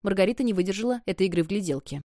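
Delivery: ordinary delivery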